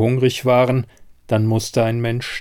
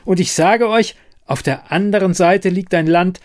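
high and loud, impassioned; insistent; 8 semitones higher, 3 dB louder than usual. Acted. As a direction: make them believe you. Siren insists to doubting men.

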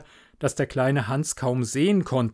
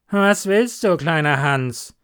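doctor calling down; 3 semitones higher, 5 dB louder than usual. Acted. Doctor asking Hans from the window, loud then easing. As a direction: ask from the window.

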